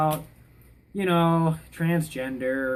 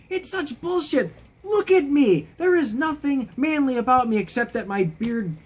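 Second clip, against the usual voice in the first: high, exasperated outburst, pitch jumping up; pissed off; 8 semitones higher than usual. Real, not acted. Ranting at people who misgender them, pissed off. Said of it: "That's what pisses me off".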